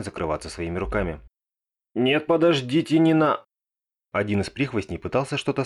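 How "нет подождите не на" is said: panicked pleading. Acted. Прихвостень в панике перебит.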